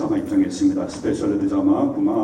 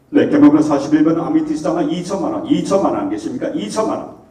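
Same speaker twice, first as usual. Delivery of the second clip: auctioneer; 5 semitones higher than usual. Acted. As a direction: call out the bids like an auctioneer. Live horse auction bid calling.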